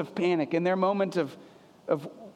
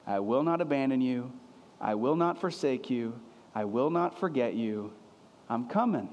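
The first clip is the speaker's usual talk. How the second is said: tender reassurance; 5 semitones lower than usual. Shown as a demonstration. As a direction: comfort frightened disciples gently. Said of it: "See if you can catch the same tone".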